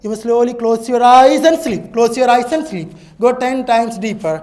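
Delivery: loud, firm sleep command; hypnotic command. Acted. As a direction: order them down into sleep. (ഉറച്ച ആജ്ഞ)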